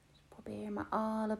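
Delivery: soft breathy whisper. Acted. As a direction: let go in a whisper. Meditation, release tension. (zachte fluisterstem)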